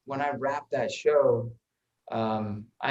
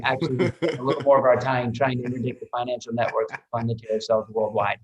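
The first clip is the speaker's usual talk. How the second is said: deadpan. Retold or imitated. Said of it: "and I just deadpan".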